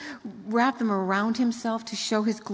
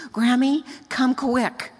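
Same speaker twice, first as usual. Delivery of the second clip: put-on breathless little girl; 3 semitones higher, 4 dB louder, slower than usual. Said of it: "her little voice ... is absolutely breathless".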